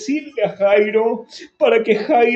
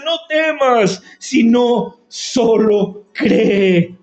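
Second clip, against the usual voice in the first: slow reassurance; slower than usual. Acted. Lord's words slowed.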